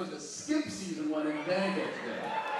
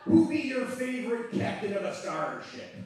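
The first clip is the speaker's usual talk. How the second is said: loud pirate quizmaster; shouted pirate question; 4 semitones higher, 4 dB louder than usual. Acted. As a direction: bellow it like a pirate.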